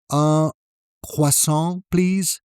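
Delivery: unsure tourist, rising at the end; hesitant tourist. Shown as a demonstration. Tourist ordering at the counter, hesitant and unsure. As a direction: ask like a lost tourist. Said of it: "start sounding like tourists".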